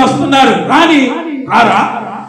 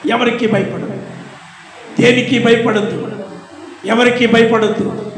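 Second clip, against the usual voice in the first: gentle reassurance; 6 dB quieter than usual. Real, not acted. Softer pleading repetition.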